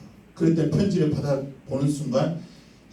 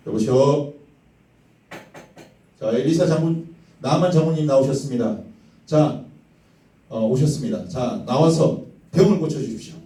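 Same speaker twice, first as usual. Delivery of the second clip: loud formal call at a gate; calling at the door; 5 dB louder than usual. Acted. Soldiers calling Elisha out of his house, loud formal call. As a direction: bellow it out for the house to hear.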